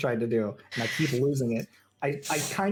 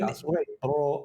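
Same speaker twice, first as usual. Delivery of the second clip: Scottish lilt instead of the intended voice, drawn out slowly; slipped into Scottish; slower than usual. Retold or imitated. Scottish accent. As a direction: GM slips into a Scottish accent by mistake, slow Scottish lilt. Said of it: "that was Scottish again".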